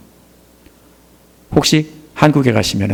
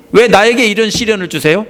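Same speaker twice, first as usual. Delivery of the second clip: higher-pitched, protesting question; imitated resentment; 7 semitones higher than usual. Preacher voices a believer asking God why trials come, resentful. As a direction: act out complaining to God. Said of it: "이러면서 원망이 나오겠죠?".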